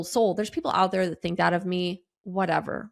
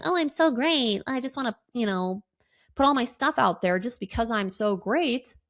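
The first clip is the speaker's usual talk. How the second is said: high, smug stuck-up voice; a show-off bragging about herself, hammed up; mock conceited voice; 4 semitones higher than usual. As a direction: ham up a self-important snob. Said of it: "Do you like my voice?".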